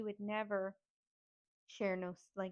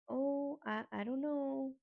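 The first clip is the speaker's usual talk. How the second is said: higher, halting imitation of a dazed woman; out-of-it aunt; 5 semitones higher, slower than usual. Imitating aunt who can't hold a conversation, dazed. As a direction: mimic someone no longer there in the head. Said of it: "She's speaking gibberish".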